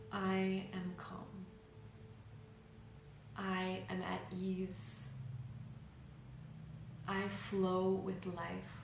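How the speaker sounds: slow, even and meditative; calm affirmation. Shown as a demonstration. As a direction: speak each affirmation slowly, letting it settle. Demonstrates example affirmations for meditation.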